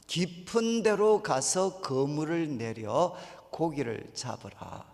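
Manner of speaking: slow, measured quoted command; calm command. Retold or imitated. Jesus calmly tells Simon, slow and measured. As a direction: lay out the order slowly and evenly. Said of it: "시몬한테 뭐라고 이야기했나".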